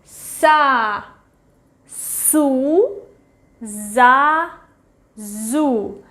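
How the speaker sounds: "Sa, su, za, zu" said slowly and clearly; syllable drill. Shown as a demonstration. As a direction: drill "Sa, su, za, zu" one syllable at a time. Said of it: "One more time".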